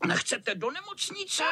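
mocking cat. A narrator's reading. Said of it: "chechtal se zlý kocour".

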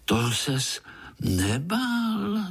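high, slow wondering question; little spider marvelling at the uncle; surprised child. A narrator's reading. Child asks uncle in awe, high and slow. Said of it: "divil se Pája".

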